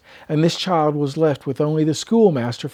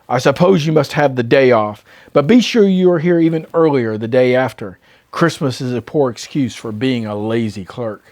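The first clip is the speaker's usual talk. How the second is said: grumpy Scrooge; 3 semitones lower than usual. Acted. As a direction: spit out the humbug in contempt. Scrooge voiced in story.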